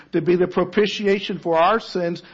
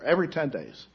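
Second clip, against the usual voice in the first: quiet echo; 2 semitones lower, 7 dB quieter, faster than usual. Shown as a demonstration.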